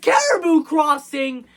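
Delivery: high-pitched mock announcement; calling out. Conductor seeing what blocks the train, calling out. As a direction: imitate someone calling out a sighting. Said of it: "And then he's like".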